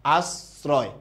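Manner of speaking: "আশ্রয়" as "as-roy" with a clean s; careful "আশ্রয়", s in place of sh; model pronunciation. Shown as a demonstration. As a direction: open o in "আশ্রয়", s not sh. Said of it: "কথা কি বুঝতে পেরেছেন".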